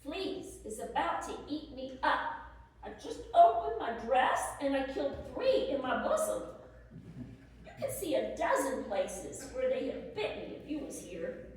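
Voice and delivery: laughing through the flea story; amused, laughing while writing to her husband. Acted. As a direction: chuckle as you tell it. Wife jokes about flea bites.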